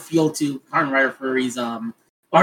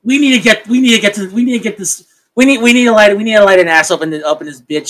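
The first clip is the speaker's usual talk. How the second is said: frantic producer; 4 semitones higher, 5 dB louder than usual. Retold or imitated. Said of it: "contrived and like".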